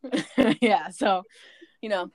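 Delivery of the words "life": Southern "Laugh" for life, vowel flattened to lahf; higher, teasing Southern-accent "Laugh"; imitated Southern accent. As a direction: mimic a Southerner's glideless "Laugh". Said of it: "She'd be like".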